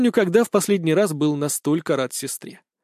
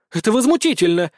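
high, loud cry of outrage; outraged exclamation; 6 semitones higher, 4 dB louder than usual. A narrator's reading. Eldest daughter exclaiming at her parents, outraged. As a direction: exclaim it, appalled. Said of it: "воскликнула старшая дочь".

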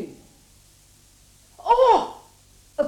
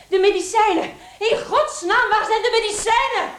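higher, louder, urgent; hurry, near hysteria; frantic panic; 6 semitones higher, 4 dB louder than usual. Acted. Sister searches for the medicine in panic.

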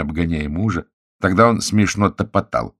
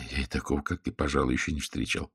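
much softer, lower private remark; guest's sardonic thought about the husband, much softer; inner thought; 4 semitones lower, 9 dB quieter, faster than usual. A narrator's reading. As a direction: think it silently to yourself.

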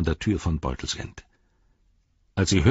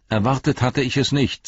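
stern anger; 7 semitones higher, 4 dB louder than usual. Acted. Frodo confronts Saruman, raised.

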